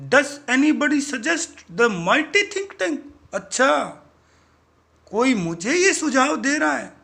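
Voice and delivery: rant, offended at being doubted; indignant boss. Acted. Mighty boss rants at his crew for doubting him, high and loud.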